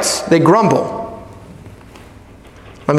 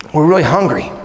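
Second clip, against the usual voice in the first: soft prayer; 5 semitones lower, faster than usual. Shown as a demonstration. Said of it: "why can't we say it like this".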